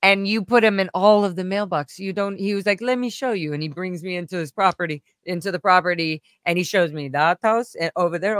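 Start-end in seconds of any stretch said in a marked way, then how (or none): 0.0-2.4 lightly imitated Indian accent; bad Indian accent. House manager explaining why he called, light Indian accent. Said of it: "I'm doing the worst accent". 2.8-3.5 lightly imitated Indian accent, pitched up; bad Indian accent. House manager offering to show her around, light Indian accent. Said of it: "I'm doing the worst accent".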